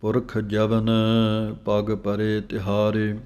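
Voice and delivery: slow, measured chanting of scripture; slow Gurbani recitation. Shown as a demonstration. Teacher reciting the verse slowly for students to follow. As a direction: recite each phrase slowly with pauses.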